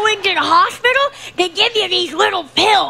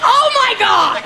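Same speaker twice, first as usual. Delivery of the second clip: raised, hammed-up dread; mock horror; 4 semitones higher than usual. Fortune teller to a client about the future, mock horrified. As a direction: act appalled at a vision, half for laughs.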